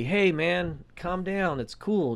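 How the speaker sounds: soft, soothing reassurance; nice and calm. Retold or imitated. Young guy calming the old man on the bus, nicely. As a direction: settle him down gently, keeping it light. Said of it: "he did it so nicely".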